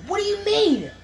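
very high-pitched imitated disbelief; incredulous. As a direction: act out a baffled friend, voice shooting up. Friend reacts to too much acid.

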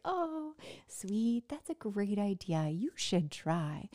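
lightly voiced sweet, encouraging friend; supportive girlfriend. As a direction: imitate a girlfriend gently approving, easing down at the end. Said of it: "When I talk to my girlfriends".

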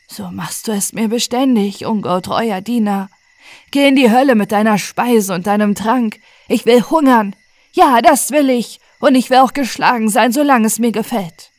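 lauter und höher, trotzig; trotziger Herr. Acted. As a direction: schleuder ihm die Weigerung entgegen. Herr weist Diener trotzig ab. (Herr weist den Diener trotzig und laut ab)

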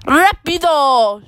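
a mock shout, stretched out slowly; mild shout. Nora telling the boat to go fast, mildly shouting. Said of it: "shouts Nora".

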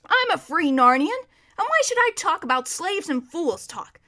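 high-spirited storybook horse; proud talking horse. Acted. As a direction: declare independence loudly.

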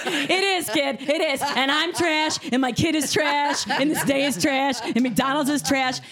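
high-pitched retold outburst, laughter creeping in; hysterical laughing. Worn-out mother agreeing with the kid, high laughing outburst. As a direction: pile it on, high, on the edge of laughing. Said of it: "hysterically laughing".

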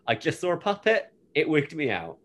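quoting Buffy. Retold or imitated. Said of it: "she says".

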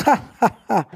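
booming mock laugh; dragon laugh. A narrator's reading. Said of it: "riu o dragão".

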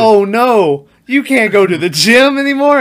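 high, loud mock-sympathetic mom voice. Imitating the film mom mocking another mom, high and loud. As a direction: ham up the fake pity, pitched well up. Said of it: "And Mom's like".

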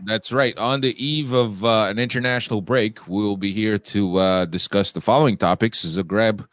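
raspy, congested voice from a cold; rough, scratchy sinus-cold voice; hoarse voice. Real, not acted. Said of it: "rasp, man".

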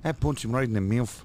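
comic put-on accent, Australian sliding into Irish; mock Australian or Irish accent. Shown as a demonstration. Answering about a roo fight, mock Australian-Irish accent. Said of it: "I can do Irish really well and Australian".

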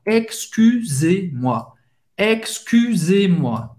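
Excusez-moi said slowly, each syllable clear; slow French model. Shown as a demonstration. Teacher drills Excusez-moi slowly for the class. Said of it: "De novo, o U".

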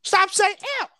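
high, loud exasperated outburst; exasperated retort. Retold or imitated. Retelling exasperated reply to friends.

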